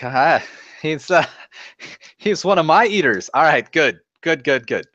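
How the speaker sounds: high jovial bluster. Acted. Wari covering for his friend, high jovial bluster. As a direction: brush off the jibe with a high chuckle.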